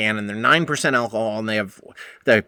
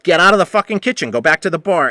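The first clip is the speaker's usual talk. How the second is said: angry order; 4 semitones higher, 5 dB louder than usual. Retold or imitated.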